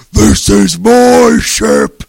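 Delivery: slow, loud, booming pirate captain; deep intense pirate voice. Retold or imitated. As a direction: lean into it like a menacing pirate. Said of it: "He got, like, all deep and, like, intense with it".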